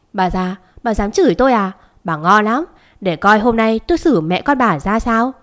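a bully threatening a mother and daughter, loud and menacing; loud gritted threat. Acted. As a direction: snarl the threat at the old woman. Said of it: "gằn giọng thật to".

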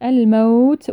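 slow الموت with a drawn-out aw before the stop; soft-vowel lengthening. Shown as a demonstration. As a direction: stretch the waw glide of الموت, then stop on t. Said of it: "اللين العارض للسكون". (مد اللين في الموت عند الوقف)

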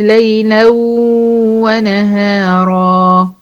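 slow, "ليلا" merged into "ونهارا" with nasal hum; joined with ghunna. Shown as a demonstration. المعلمة تعيد المثال بإدغام ناقص بغنة. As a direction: merge the نون into the واو with a light nasal. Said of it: "إدغام ناقص بغنة".

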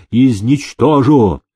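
slow, loud, shaking with anger; voice trembling with rage. Acted. Groom shouting his rage in the stable. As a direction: let the fury tremble through it. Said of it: "Голос его дрожал гневом".

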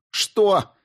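scornful smirk. A narrator's reading. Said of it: "презрительно усмехнулась Алиса".

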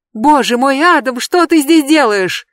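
high, loud shriek. Acted. Brandi sees Adam and shrieks, high loud shriek. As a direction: shriek his name in shock. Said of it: "завизжала Бренди".

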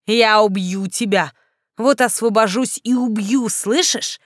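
mild yell, frantic threat; frantic furious yell. Acted. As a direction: threaten wildly, raising voice. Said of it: "кричала я как безумная". (яростный крик, как безумная)

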